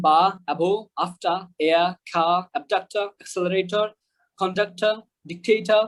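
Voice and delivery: word list with final R's dropped; silent final R. Shown as a demonstration. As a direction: end "আফটার" and "ডিকটেটর" on an open vowel. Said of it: "আরটা কিন্তু উচ্চারণ হইল না". (শব্দের শেষে র ছাড়া)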